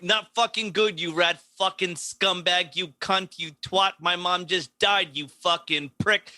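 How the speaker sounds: mild mock rant, insults in steady rhythm; retold angry tirade. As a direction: imitate a man relentlessly going at someone. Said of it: "he just keeps going at him".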